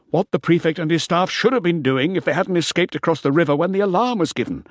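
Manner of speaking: lightly voiced smooth official; a hint of sly evasion. Bele answers slyly.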